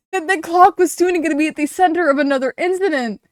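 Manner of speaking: incredulous requote. Real, not acted. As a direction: repeat the line in disbelief. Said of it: "I'm getting heated".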